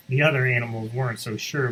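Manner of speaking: ordinary delivery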